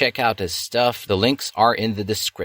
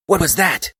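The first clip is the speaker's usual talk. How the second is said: sniffed; 10 semitones higher, 3 dB louder than usual. Acted. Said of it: "she sniffed".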